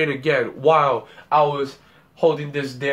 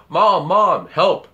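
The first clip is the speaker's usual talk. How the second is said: mild mock scream for mom, louder; retold scream; 2 semitones higher, 5 dB louder, slower than usual. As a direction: call out for help, retelling a scream. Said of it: "So I screamed out".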